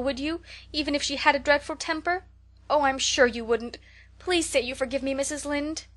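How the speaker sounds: high, loud, tearful pleading; beseeching apology. Acted. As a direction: beg forgiveness with everything you have. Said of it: "with a quiver in her voice".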